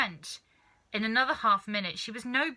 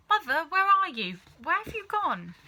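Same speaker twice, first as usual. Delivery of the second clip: anxious calling; 9 semitones higher, 6 dB louder than usual. A narrator's reading. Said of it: "But she calmed down quite quickly".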